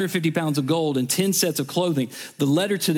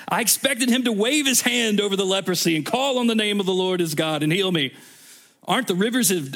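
higher, climbing protest of a proud general; rising offended complaint about the rivers; indignant rant; 4 semitones higher than usual. Acted. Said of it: "became angry and stalked away".

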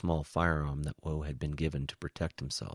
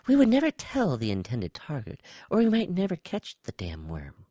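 high, louder alien voice; high-pitched reptile; 11 semitones higher, 5 dB louder than usual. A narrator's reading. Reptile spy justifies using Woe, high-pitched. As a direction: explain in a high creature voice.

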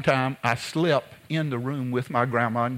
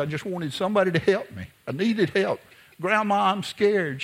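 put-on scared child pleading; 6 semitones higher than usual. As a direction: beg like a scared little boy at night. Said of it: "I said".

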